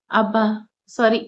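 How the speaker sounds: usual speaking voice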